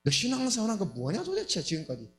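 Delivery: mildly acted accusing questions, quickening. Evil spirits condemning a believer, mildly acted accusation. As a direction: press the charge as an accuser would. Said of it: "하면서 계속 참소도 하고 정죄도".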